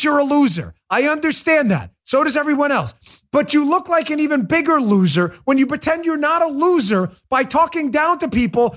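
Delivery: ordinary delivery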